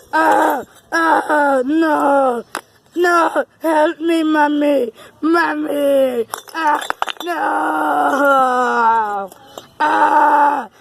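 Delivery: loud pretend cries for Mommy; hammed-up panic; mock wailing. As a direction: wail like a scared kid.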